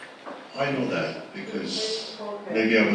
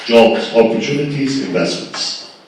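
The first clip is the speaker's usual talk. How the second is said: each word punched louder, the last one falling away; emphatic list; 8 dB louder than usual. Real, not acted. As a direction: hammer out three key words. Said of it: "You say the last word".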